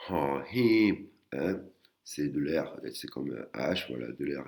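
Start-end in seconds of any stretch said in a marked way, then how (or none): 0.1-1.1 Ho Hip breathy with a rising tone. Shown as a demonstration. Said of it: "une intonation aiguë".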